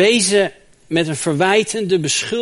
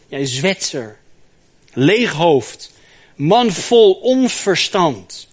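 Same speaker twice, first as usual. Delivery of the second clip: scolding; 3 dB louder, much slower than usual. Acted. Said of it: "scheldt zijn vriend Zophar hem uit".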